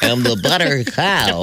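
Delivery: laughing through the words; giggling it out. Real, not acted. Repeats line laughing.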